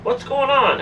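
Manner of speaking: re-enacting frightened disbelief; retold bewildered outcry. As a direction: cry out in confusion, mildly acted. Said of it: "I cried out lou-, out loud".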